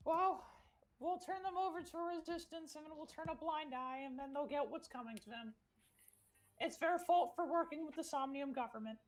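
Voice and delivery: high little voice, calmly laying out a plan; just-revived character. Acted. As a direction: pitch it way up and keep it light. Player voices character just awoken.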